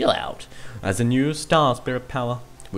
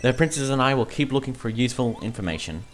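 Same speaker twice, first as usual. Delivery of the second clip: Twink, earnest messenger. Acted. Twink giving Mario news from the castle, earnest. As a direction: report earnestly, then bid farewell.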